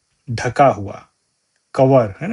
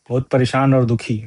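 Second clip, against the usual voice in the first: whisper; much faster than usual. Real, not acted. Teacher glossing word meaning.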